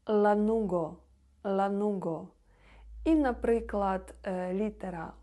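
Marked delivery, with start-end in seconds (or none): 0.1-2.3 лануго with a clear light l; Polish l sound. Shown as a demonstration. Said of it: "не тверду літеру В, а В".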